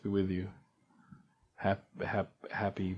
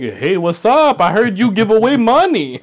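chipper charity pitch; 10 semitones higher, 8 dB louder than usual. Retold or imitated. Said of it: "Sierra Club shit. Like".

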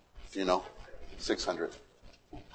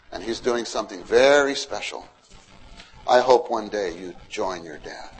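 softer, lower grandfatherly talk; tender grandpa; 4 semitones lower, 4 dB quieter than usual. Acted. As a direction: gently tell the boys a family secret. Grandpa Methuselah on lap talk.

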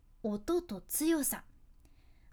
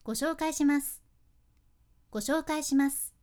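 "ご紹介します" falling gently, said through a smile and louder; soft ending, smiling; 5 dB louder than usual. Shown as a demonstration. Presenter showing the friendliest way to introduce something. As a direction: smile as you let "します" drop softly. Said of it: "柔らかくかつ口角を上げて".

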